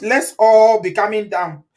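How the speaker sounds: slow, loud, laughing through it; amused, telling the viewers to calm down, laughing. Real, not acted. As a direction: giggle out a plea to calm down.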